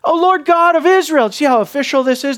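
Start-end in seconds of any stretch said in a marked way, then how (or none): 0.0-1.3 high, raised accusing cry at God; loud indignant complaint to God. Retold or imitated. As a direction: throw the blame up at heaven. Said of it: "the accusation there".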